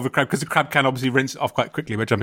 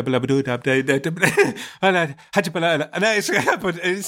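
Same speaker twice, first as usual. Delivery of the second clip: nonsense babbling through laughter; gibberish babble; 3 semitones higher than usual. Shown as a demonstration. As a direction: babble sounds with no meaning. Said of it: "try and make sounds, but without meaning of words".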